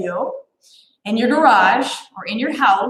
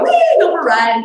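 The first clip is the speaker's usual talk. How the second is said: mock whee; 3 semitones higher, 4 dB louder than usual. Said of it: "you're gonna go".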